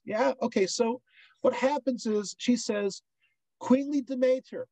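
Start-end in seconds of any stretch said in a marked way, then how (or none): 3.6-4.7 "Demeter" said de-MAY-ter; preferred pronunciation. Shown as a demonstration. Lecturer giving the goddess's name as preferred, "Demeter" as de-MAY-ter. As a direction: say "Demeter" with an "ay" in the stressed middle. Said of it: "I like to say Demeter".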